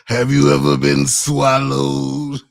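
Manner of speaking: slow drawn-out preacher voice; lightly voiced mock preacher; preacher impression. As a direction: intone it like a big-stage preacher. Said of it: "the speaker said".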